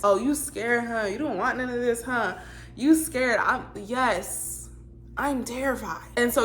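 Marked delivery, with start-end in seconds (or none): 0.0-3.4 lightly mimicked taunt, pitched higher; mock the way a boy puts on tough talk. Teller mocks how the boy talks to her, put-on taunting. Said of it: "you don't talk like that".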